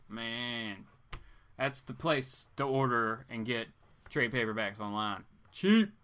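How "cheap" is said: excited. Real, not acted. Plugging a cheap comics store.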